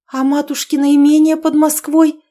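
high, loud alarmed asking; cling to a last hope; frightened outcry; desperate question. Acted. Daughter grasps the full ruin.

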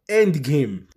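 very slow, drawn-out End Game; spoken slowly. Shown as a demonstration. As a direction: spell out each word slowly. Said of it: "فيلفظ". (نطق بطيء جدا لـ End Game)

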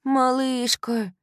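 high, slow drawn-out comfort; caring young woman consoling; tender girlfriend. A narrator's reading. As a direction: soothe her crying friend. Kylie comforting.

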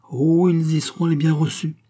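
high, loud relish; fierce joy. A narrator's reading. Queen promising deputies a welcome, savagely gleeful. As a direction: exult with menace. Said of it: "avec une farouche joie".

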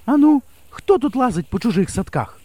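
high, clear challenge into the dark; ringing call. A narrator's reading. Teacher challenging an intruder in her garden, high and ringing. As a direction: call out boldly to scare the intruder. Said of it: "дзвінко промовила вона".

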